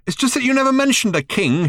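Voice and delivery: high, worried shout; shouted in consternation. A narrator's reading. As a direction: shout it, flustered. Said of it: "shouted Arthur back in some consternation".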